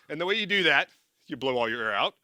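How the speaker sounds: normal talking voice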